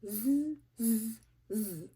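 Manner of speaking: buzzing monkey mimicry; monkey chatter. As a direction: tease back like cheeky monkeys. Monkeys mocking the peddler.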